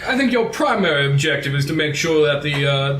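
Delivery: a light Southern gentleman voice; smooth-talk like a Southern ladies' man. Acted. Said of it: "mixture of a Southern guy and the ladies' man".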